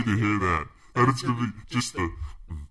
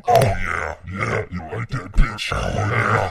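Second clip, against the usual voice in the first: devil voice; 6 dB louder, slower than usual. Pretend. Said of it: "We got the devil voice".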